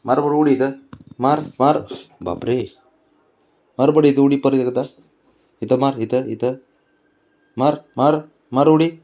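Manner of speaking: cheering on. Real, not acted. Grandmother cheering toddler to jump, high excited urging.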